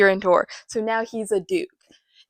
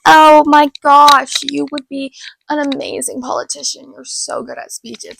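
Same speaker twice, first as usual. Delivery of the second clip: gushing fan; 4 semitones higher, 9 dB louder than usual. Retold or imitated. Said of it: "they're like".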